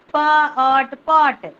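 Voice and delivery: each sound said loud and apart; phonics blending. Shown as a demonstration. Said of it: "phonics sound blending demo".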